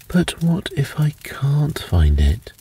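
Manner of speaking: frightened whisper. A narrator's reading. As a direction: breathe it out scared, barely voiced. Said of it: "cried the frightened elf".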